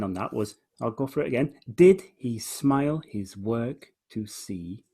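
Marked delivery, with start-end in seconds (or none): 1.7-4.8 slow line, stressed "Did", questioning "see"; measured question spaced up to "see"; read as question. Shown as a demonstration. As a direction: ask it slowly from a strong "Did". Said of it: "That's a question".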